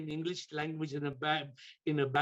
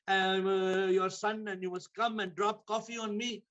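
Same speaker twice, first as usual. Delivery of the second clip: angry raised scolding rant; furious husband; 4 semitones higher than usual. Acted. Husband scolding his wife over the spilled coffee, angry and raised. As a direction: berate her for spilling coffee.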